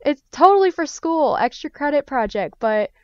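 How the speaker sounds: put-on high, sweet-talking kid voice, a bit overdone; wheedling teen. Teen sweet-talking mom and dad into a convention trip, high and wheedling. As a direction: coax the parents in a high pleading voice.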